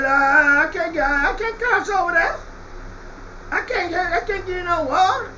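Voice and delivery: lightly voiced pleading with a catch; begging rich man. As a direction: whimper a bit as the thirsty rich man. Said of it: "That's how he really said it".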